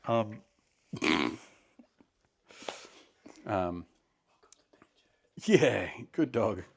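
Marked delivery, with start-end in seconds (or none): 5.4-6.6 whisper. Real, not acted. Whisper to the dog.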